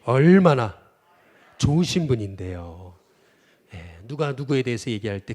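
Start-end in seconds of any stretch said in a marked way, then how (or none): 0.0-3.0 louder and slow, spaced for the crowd to echo; preacher leading a call-and-response; slow call to repeat. Shown as a demonstration. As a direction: declaim it slowly so everyone can repeat it. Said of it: "또 따라해 보겠습니다".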